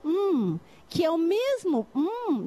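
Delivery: teacher demonstrating the m sound as "hum". Shown as a demonstration. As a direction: hum held as a long nasal m. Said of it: "começa com esse som".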